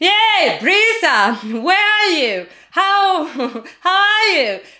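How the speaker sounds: very slow, loud, high, drawn-out shout. Showing how to call to someone far away in a crowd, shouting a name across a crowd. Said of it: "really try to shout someone's name".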